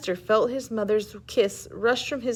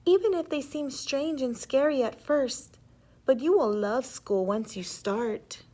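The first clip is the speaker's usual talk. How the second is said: gentle mother; 3 semitones higher than usual. Acted. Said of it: "she told him gently".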